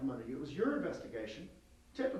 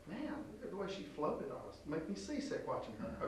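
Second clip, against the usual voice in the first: soft, half-whispered casting complaint; muttered aside; 6 dB quieter than usual. Retold or imitated. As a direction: grumble it under your breath. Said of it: "they go".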